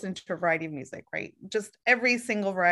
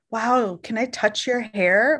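mock gushing stranger; slower than usual. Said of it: "random people be like".

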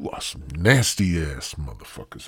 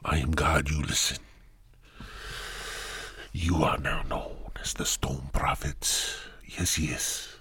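mock God voice; 2 semitones lower, 3 dB quieter than usual. Retelling God naming him, in a hushed mock god voice. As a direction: play a hushed, hissing deity. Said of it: "I don't think God's supposed to hiss".

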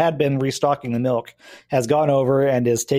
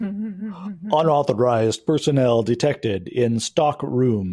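slow, flat robotic announcement; slow stone monotone; slower than usual. Acted. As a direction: deliver it like a security system. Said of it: "The deep voice also says".

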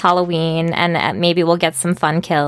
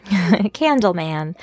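laughing; much slower than usual. Real, not acted. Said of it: "I don't know what it said".

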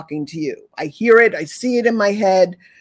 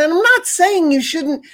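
normal talking voice

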